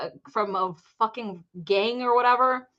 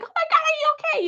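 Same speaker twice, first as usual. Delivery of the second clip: worried stranger; faster than usual. Retold or imitated. Lady rescuing her from pool.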